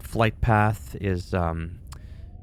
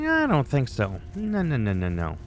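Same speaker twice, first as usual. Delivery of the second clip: mock taunt; 3 semitones higher than usual. To enemy player in-game, mock tough-guy taunt. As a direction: goad the enemy playfully.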